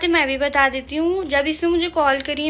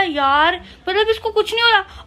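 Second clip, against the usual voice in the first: higher and quick, half laughing in amazement; amazed disbelief; 4 semitones higher than usual. Retold or imitated. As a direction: marvel that she isn't bothered at all. Mother retells her amazed reaction. (हैरान होकर तेज़ी से)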